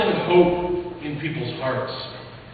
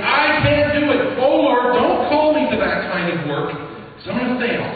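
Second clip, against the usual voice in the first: higher, louder voice of despair; despairing plea; 6 semitones higher, 3 dB louder than usual. Retold or imitated. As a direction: plead like someone overwhelmed. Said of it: "throw up our hands and say".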